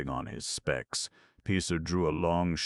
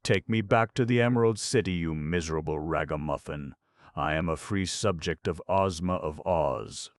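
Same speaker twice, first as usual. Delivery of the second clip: angry; 3 semitones higher, 7 dB louder than usual. A narrator's reading. Angry queen demands return.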